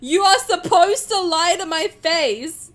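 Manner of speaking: loud, high, slow insistence; emphatic demand. Real, not acted. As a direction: lay down the rule loudly, word by word. Insists chat must flatter them.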